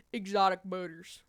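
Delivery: heavy Midwestern R in Exotic butters; Midwestern accent. Shown as a demonstration. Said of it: "The accent goes insane".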